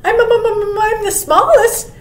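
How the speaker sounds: high, excited little-mouse voice; stammering mouse. A narrator's reading. Mouse offering to tunnel under the snow, high stammer. Story mouse volunteers, stuttering.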